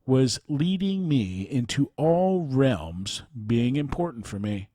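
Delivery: measured account read aloud. Real, not acted. Host reads a written account of a spiritual teacher, measured narration. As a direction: read a personal testimony clearly, phrase by phrase.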